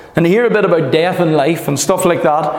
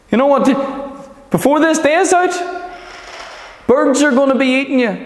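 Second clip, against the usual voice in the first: menacing giant's taunt; 5 semitones higher than usual. Retold or imitated. Preacher voices Goliath's taunt.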